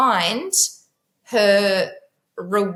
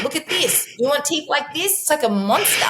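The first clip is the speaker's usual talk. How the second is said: mock scary warning; 7 semitones higher than usual. Mum scaring daughter about brushing teeth.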